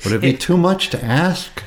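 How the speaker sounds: laughing, mock Jewish mother voice; Yiddish accent. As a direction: put on a Yiddish mother lilt.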